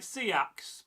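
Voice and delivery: "Seax" as early Mercians said it; early Mercian pronunciation. Shown as a demonstration. History teacher showing Mercian speech, older-sounding "Seax". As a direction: show the older vowel in "Seax". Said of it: "they would say something like".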